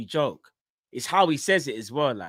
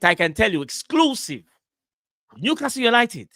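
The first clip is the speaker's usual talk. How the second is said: hyped reporter impression; 2 semitones higher than usual. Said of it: "he'll say something like".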